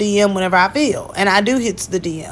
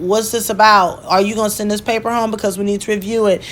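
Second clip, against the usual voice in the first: ordinary delivery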